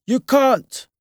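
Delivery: high, loud shocked objection; Dad protests in disbelief. Acted. Dad protesting to Mum about letting dinner go, shocked.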